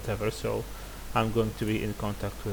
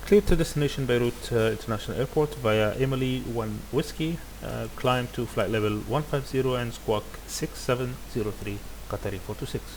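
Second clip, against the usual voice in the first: radio readback. Shown as a demonstration. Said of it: "So now I will read back the clearance".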